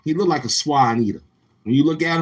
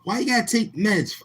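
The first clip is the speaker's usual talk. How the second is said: mock disbelief; 9 semitones higher than usual. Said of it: "I said".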